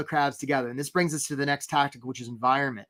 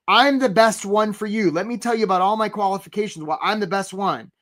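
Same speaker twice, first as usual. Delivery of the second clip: boastful applicant; 4 semitones higher than usual. Retold or imitated. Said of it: "they'll say things like this".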